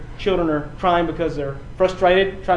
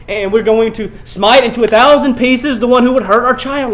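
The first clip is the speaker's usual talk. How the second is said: 1 wrathful vow; 6 semitones higher, 7 dB louder than usual. Acted. Preacher imagines wrathful parent.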